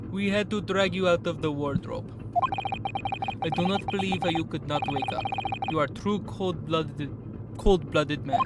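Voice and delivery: put-on a modest Russian officer accent, accusing. Officer accusing the sleepy suspect, in a light Russian accent. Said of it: "now I have to do a Russian accent".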